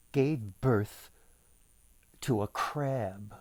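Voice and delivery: measured storybook reading; unhurried storyteller voice; story narration. A narrator's reading. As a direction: read the tale to listeners. Reads the folktale aloud.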